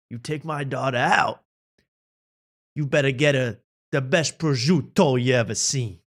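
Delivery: lightly imitated stern Italian father; hint at a serious dad's Italian accent. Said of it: "an Italian voice where he's, like, a very serious, like, dad".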